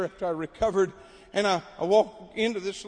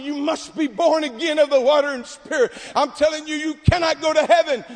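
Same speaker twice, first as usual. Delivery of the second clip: raised, emphatic preacher delivery; mock preaching; 5 semitones higher, 4 dB louder than usual. Preacher warning the congregation through an interpreter, re-enacted preaching. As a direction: re-enact preaching with urgent conviction. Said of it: "And so I'm preaching".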